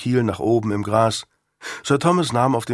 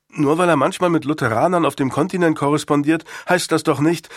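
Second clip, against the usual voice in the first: put-on higher, insistent young voice; agitated protest; 6 semitones higher than usual. Boy argues for his father to Sir Thomas, agitated. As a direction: argue back in father's defence.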